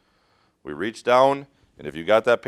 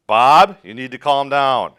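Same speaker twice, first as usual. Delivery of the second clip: louder, commanding call; firm shout; 5 semitones higher, 11 dB louder, slower than usual. Acted. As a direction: cut through his panic by raising your voice. Rescuer raises voice to patient.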